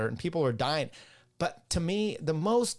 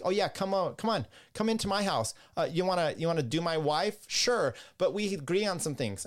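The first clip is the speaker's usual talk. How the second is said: mock-eager, pitched higher, like an overly willing host; mocking welcome; 6 semitones higher than usual. Mocking conservatives who welcome opponents, in a higher mock-eager voice. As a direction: lampoon a pushover inviting the enemy in. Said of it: "It's always like".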